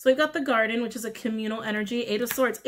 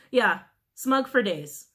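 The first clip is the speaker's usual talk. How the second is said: 1 drawn-out scorn; 3 dB louder, much slower than usual. Real, not acted. Mocking the smug person.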